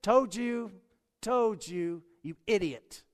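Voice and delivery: hammed-up furious father screaming from the porch; mock furious scream. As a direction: yell it like a fed-up dad calling his boy an idiot. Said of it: "The Father didn't scream from the porch".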